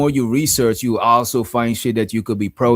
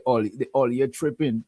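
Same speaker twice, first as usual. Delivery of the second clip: light mock Trinidad accent, a bit softer; 6 dB quieter than usual. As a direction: tease it like a Trinidad auntie. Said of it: "That's how Trinidad people talk".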